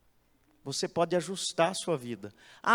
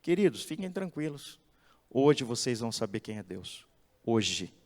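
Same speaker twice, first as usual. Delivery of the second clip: calm, lower, gentle reassurance; serene; 4 semitones lower than usual. Acted. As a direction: speak serenely to the crowd. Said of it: "Serenamente ele disse".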